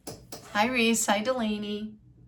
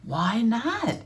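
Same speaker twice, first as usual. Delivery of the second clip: higher, puzzled read-aloud question; questioning Frog; 4 semitones higher than usual. Acted. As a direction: pitch swooping up into the question. Frog's question in read-aloud story.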